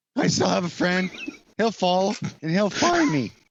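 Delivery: squeaking, pitched way up high. Performing a line in a scene with a partner; Squeaky Voiced Teen voice. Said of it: "Are you doing squeaky voiced teen from The Simpsons".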